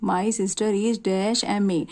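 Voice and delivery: very slow gap-fill sentence read twice; slow teacher reading of an exercise. Shown as a demonstration. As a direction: read the blank sentence slowly, word by word. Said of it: "अब ये दिखने में हमें".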